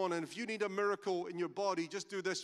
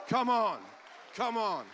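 joyful shout; 3 semitones higher, 4 dB louder than usual. Real, not acted. Joyful cheer at the news.

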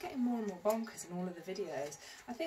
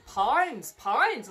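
put-on playful swooping Irish accent on "pounds"; mock Irish; 2 semitones higher, 7 dB louder than usual. Vlogger toying with the price of a dress, mock Irish. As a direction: lean into a muddled Irish twang. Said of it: "I turned Irish".

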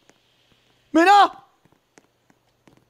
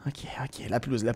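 whispering; 12 semitones lower, 13 dB quieter than usual. Real, not acted. Whisper while sneaking.

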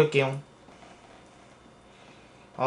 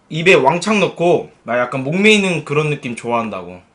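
speaking between bites; talking while chewing. Real, not acted. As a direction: mouth partly full of food. Seen 1: hand covers mouth, then lips work as if chewing food.

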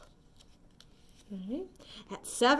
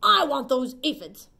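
ladybug voice; 2 semitones higher, 8 dB louder than usual. Acted. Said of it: "shouted the grouchy ladybug".

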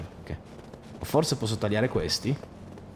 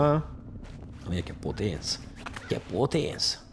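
softer, drawn-out sarcastic wonder; mock awe; 4 semitones lower, 7 dB quieter, slower than usual. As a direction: pretend to be amazed. Mock awe at a weak jump.

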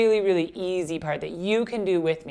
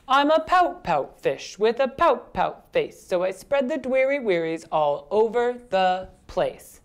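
put-on slow, heavily accented rhythmic refrain; gloomy pout-pout fish; 4 semitones higher, 3 dB louder, slower than usual. Fish tells of his pouty face, slow gloomy chant. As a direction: chant the fish's woe, stretching the ending.

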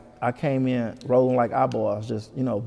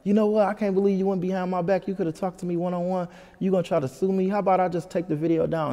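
mock indignation without raising the volume; mad caller; 6 semitones higher than usual. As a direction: imitate an annoyed caller in a raised pitch. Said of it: "she got mad and called me".

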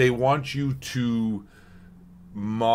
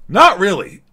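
exaggerated high retort; 11 semitones higher, 12 dB louder than usual. Mock exaggerated reply.

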